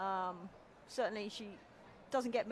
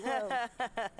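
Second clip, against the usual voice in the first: loud drawn whoa; playful startled whoa; mock surprise; 4 dB louder than usual. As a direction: react as if baffled. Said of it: "I'm like".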